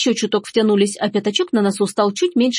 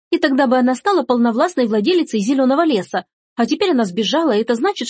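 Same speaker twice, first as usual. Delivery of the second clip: higher-pitched tattling daughter, lightly voiced; holding forth; 5 semitones higher than usual. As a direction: carry on telling tales, pitched up. (вещает, как ябеда)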